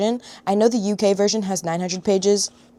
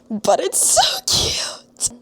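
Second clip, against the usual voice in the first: cutesy whisper; 8 semitones higher, 3 dB louder, much slower than usual. Real, not acted. Admiring the book.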